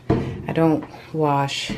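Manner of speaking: slow, breathless and tired; out of breath. Real, not acted. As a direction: talk while winded from cleaning. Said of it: "I'm out of breath and I'm tired".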